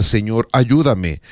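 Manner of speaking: an unhurried humble plea; simple prayer. Shown as a demonstration. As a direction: say it slowly, as a trusting prayer. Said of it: "Cuando no sepa qué des".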